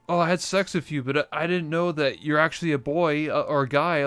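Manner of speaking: hammed-up shock reveal; guest confession. Talk show guest confessing to partner, mock voice. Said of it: "And it's like".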